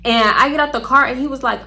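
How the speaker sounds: ordinary talk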